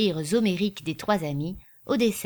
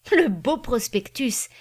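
slow, admiring exclamation, pitched up; enthusiastic; 5 semitones higher, 5 dB louder, slower than usual. A narrator's reading. Popinot admiring the prospectus, enthusiastic. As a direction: relish it with delighted admiration. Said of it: "dit Popinot enthousiasmé".

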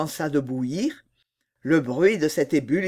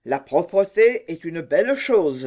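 lightly voiced sea witch; a hint of a scheming old witch; 4 dB louder than usual. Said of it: "dit-elle".

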